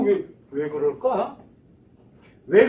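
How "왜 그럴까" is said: usual speaking voice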